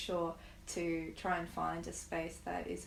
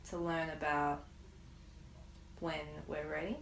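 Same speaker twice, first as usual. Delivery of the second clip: guided meditation. Acted. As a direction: ease them into stillness, unhurried. Leads a guided grief meditation.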